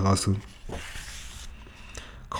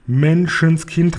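a sudden fright at the time, stretched out; startled exclamation; 4 semitones higher, much slower than usual. Acted. The uncle glancing at his watch, slow startled cry. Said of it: "rief er".

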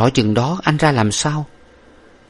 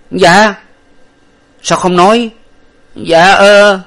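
high, loud stammering fear; terrified servant; 11 semitones higher, 8 dB louder, slower than usual. A narrator's reading. Frightened servant stammers at his master, high and loud. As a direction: stammer in terror.

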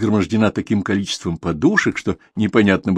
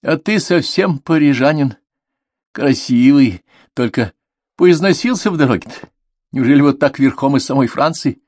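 lilting, higher-pitched fond teasing; affectionate teasing; 5 semitones higher than usual. A narrator's reading. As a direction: tease a brother tenderly, in a raised woman's voice. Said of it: "и, ласково усмехнувшись, сказала". (ласково, с лёгкой усмешкой)

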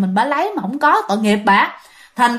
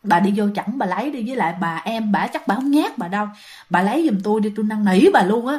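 softly pleading, in a lower voice; 3 semitones lower, 3 dB quieter than usual. Acted. Vendor begging the neighbour to fetch the crackers, softly pleading. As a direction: coax gently and low, asking a favour. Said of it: "Bà năn nỉ rằng á là".

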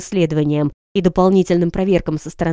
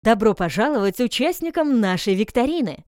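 booming announcer; 2 semitones higher than usual. Acted. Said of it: "голос из ниоткуда громогласно объявил".

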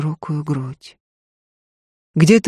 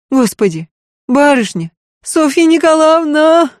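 much higher, louder keening; a maid howling aloud, higher and louder; wailing maid; 10 semitones higher, 4 dB louder than usual. Acted. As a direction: wail her name in grief. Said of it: "Марфа взвыла в голос".

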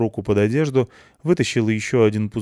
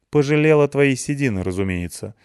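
grumbling; 6 semitones higher than usual. Acted. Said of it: "буркнула Клюся".

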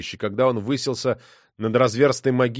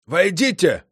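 called out; 6 semitones higher, slower than usual. Acted. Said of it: "крикнул маркиз".

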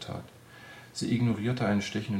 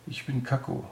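cheerful, higher-pitched introduction; 5 semitones higher than usual. A narrator's reading. Odd man introducing himself to the injured girl, cheerful. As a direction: introduce yourself brightly. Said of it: "sagte der Mann fröhlich".

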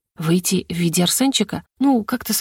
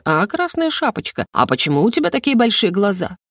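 playful fairy-tale wolf. Retold or imitated.

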